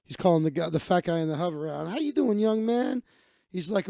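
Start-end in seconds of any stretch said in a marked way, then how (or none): 1.9-3.0 lilting, higher-pitched hello, rising at the end; friendly greeting. Retold or imitated. Man greets a stranger in line, friendly greeting. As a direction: imitate a cheery hello to a stranger.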